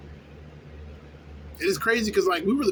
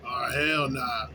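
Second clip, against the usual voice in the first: slow drawn-out refusal; 4 semitones lower, much slower than usual. Retold or imitated. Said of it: "don't think, like".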